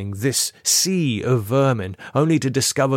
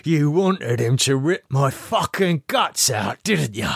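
hint of an accusing higher voice; bitter accusation; 5 semitones higher than usual. A narrator's reading. Lee accusing Camilla, a hint of bitter fury. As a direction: spit the accusation at her.

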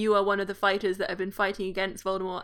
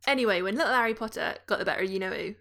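quick Cockney-style British chatter; British accent; faster than usual. Acted. Reading a Potter book character aloud for co-hosts, in British accent. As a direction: read it as a gossipy British character. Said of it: "in this accent".

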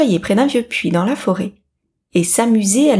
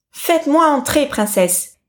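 high start, falling away; storybook toad's entreaty; pleading; 6 semitones higher than usual. A narrator's reading. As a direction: beg to be let in. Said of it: "supplia-t-il".

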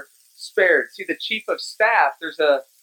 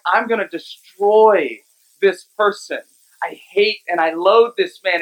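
incensed Haman. Retold or imitated. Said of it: "He's incensed".

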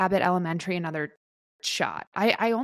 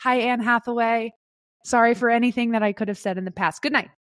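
raised, gushing sign-off to the room; mock Emmy acceptance speech; 3 semitones higher than usual. Winner apologizing to the celebrity crowd, gushing and lightly raised. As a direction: wrap it up with cheeky apologies and love. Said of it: "you are going to do your Emmy speech".

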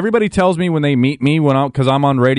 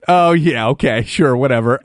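sarcastic; 3 semitones lower than usual. Real, not acted.

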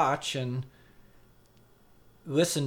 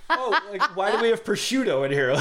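laughing; 5 semitones higher than usual. Retold or imitated. Acted quote, laughing.

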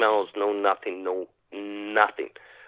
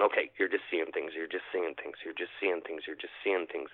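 softer, under-breath, seeing things repeated; muttered self-reassurance; 3 semitones lower, 9 dB quieter than usual. Retold or imitated. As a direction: talk yourself down quietly. Retold self-calming mantra.

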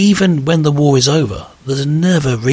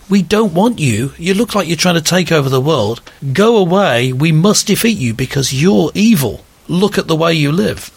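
higher-pitched, emphatic imitated rebuke; mock denunciation; 5 semitones higher than usual. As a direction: imitate an indignant accuser. Acted accusation from hostile nations.

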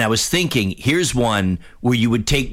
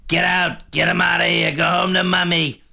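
higher mock Trump rally shout; Trump screaming; 7 semitones higher than usual. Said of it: "he's either screaming".

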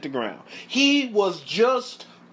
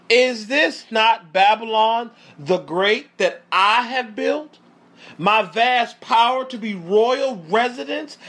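grand, emphatic boast of a king; Nebuchadnezzar exclaiming; 3 semitones higher than usual. Acted. King boasting over Babylon from his roof, exclaiming. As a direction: exclaim it as a proud, rising question. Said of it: "The king exclaimed".

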